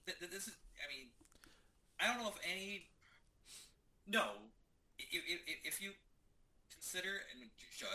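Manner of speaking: distant, hollow mic sound; tin can sound. Real, not acted. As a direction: voice thin and far from the mic. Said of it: "it sounds like you're in a tin can".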